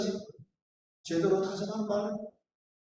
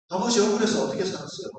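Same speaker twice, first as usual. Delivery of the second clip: fast, louder, indignant questioning; agitated question; 2 semitones higher, 5 dB louder, faster than usual. Retold or imitated. Son pressing his father, indignant and loud. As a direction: fire it at him, upset on his behalf. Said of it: "그런 개각된 목소리로 질문했을 때".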